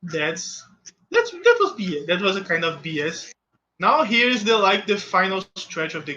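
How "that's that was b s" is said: higher and louder, fed up with the game; frustrated outburst. Real, not acted. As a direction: blurt it out in real annoyance.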